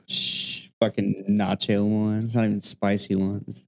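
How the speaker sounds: talking while eating chips; words round a mouthful of chips; mouth full. Real, not acted. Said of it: "while eating Doritos".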